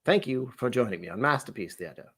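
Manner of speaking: mock-formal English presenter; English butler accent. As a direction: sign off in a put-on English accent. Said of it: "turned into someone else for a minute".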